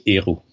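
"Héroux" with silent H and X; only the middle letters of "Héroux" sounded; French pronunciation. Shown as a demonstration. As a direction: say "Héroux" as "ay-ROO". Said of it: "you don't say the H".

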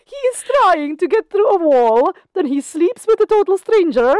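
high, excited recap announcer; TV recap narrator. Pretend. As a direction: hype it up like a recap.

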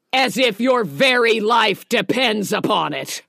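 acted indignant demand; in-your-face threat. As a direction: drive each word home, confronting him. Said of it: "gets right in his face and says".

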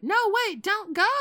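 high, loud frantic call; desperate pleading. Retold or imitated. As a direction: call him back, panicked and eager. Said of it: "calling Dave back".

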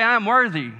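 preacher calling out a declaration; call-and-response shout. Shown as a demonstration. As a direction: lead the crowd in the shout.

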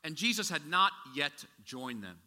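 slow, measured Bible reading; scripture reading. Acted. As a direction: read the passage with weight.

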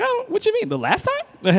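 high, squeaky confused voice; mock confused white person. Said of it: "They're like".

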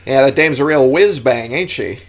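put-on old movie voice. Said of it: "Old movie voices are the best".

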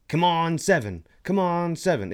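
root for the dice, lightly acted; imitated gambler cheer. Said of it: "everyone's like".

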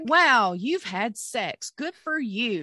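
drawn-out mock-impressed wow; sarcastic. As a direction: feign admiration, slowly and pointedly. Sarcastic reply to his bragging.

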